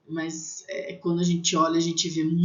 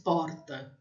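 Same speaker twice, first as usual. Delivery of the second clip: "porta" with a São Paulo R; São Paulo accent; 2 semitones lower, 4 dB quieter than usual. Shown as a demonstration. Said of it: "em São Paulo".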